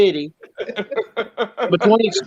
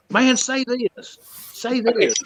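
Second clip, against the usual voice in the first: Chicago locals egging him on; 4 semitones higher than usual. Retold or imitated.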